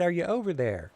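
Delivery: calling out again. Acted. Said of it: "I said".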